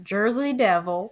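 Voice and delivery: put-on Jersey Devil said in a light, odd made-up accent; funny accent. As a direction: savour the name in a silly half-accent. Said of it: "I just wanna say it like that".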